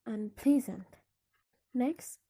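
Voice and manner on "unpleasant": "unpleasant" with PLEA stressed, "un" left light; stress on the stem. Shown as a demonstration. Teacher repeating a prefix example, PLEA stressed in "unpleasant". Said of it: "the stress remains on the stem".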